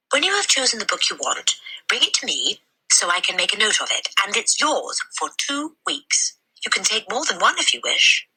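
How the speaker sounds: high, breathy librarian voice; a concerned lady asking gently; kindly librarian. A narrator's reading. Mrs Phelps voiced.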